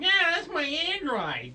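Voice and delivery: high, loud, whiny mock protest; hammed-up high whine. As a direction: whine it loudly like a sulky kid. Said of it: "he was kinda whiny".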